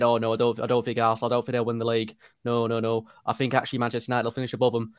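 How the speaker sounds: bad Gary Neville impression, barely shifted; lightly put-on Manchester accent, quick at the end; half-hearted Gary Neville impersonation; terrible Gary Neville accent. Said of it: "That's a terrible Gary Neville accent".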